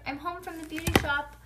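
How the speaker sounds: put-on high-pitched kid calling out; hollering. A narrator's reading. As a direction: announce it to the whole house. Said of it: "I hollered".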